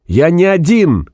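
slow, high-pitched emphatic shout; barked repeat. A narrator's reading. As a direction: stretch each word to get through. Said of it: "гаркнул Максим". (протяжный, настойчивый крик)

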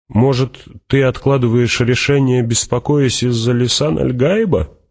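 high, animated questioning voice; Fremen warrior, probing. Acted. Fremen asks Hawat about his delay, high and probing. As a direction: press the question with lifted, lively pitch.

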